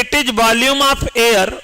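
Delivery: very slow, word by word for notes; slow dictation. Shown as a demonstration. Teacher dictating a definition to students, very slow. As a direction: dictate slowly so students can write. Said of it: "तो लिखेंगे".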